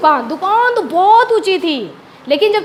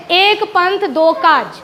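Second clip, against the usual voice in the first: slow quiz recital; much slower than usual. Shown as a demonstration. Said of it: "teacher quizzes proverb slowly".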